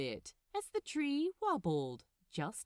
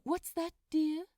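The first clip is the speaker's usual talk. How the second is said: higher, louder call from another room; Aziraphale calling; 8 semitones higher, 5 dB louder than usual. A narrator's reading. Angel calling from the kitchen to Crowley, lightly voiced gentleman.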